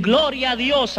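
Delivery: bright, high "Gloria a Dios" in happy praise; imitating cheerful believers; joyful greeting. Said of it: "y me dicen".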